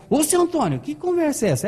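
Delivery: high-pitched mimicked maid on the phone; imitated puzzled housemaid; unpolished maid. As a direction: protest in a high, put-on maid's voice. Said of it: "ela era chucra no telefone".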